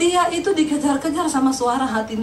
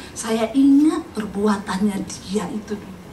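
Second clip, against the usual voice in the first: bitter neighbor; 4 semitones lower, slower than usual. Retold or imitated. Preacher voices bitter neighbor.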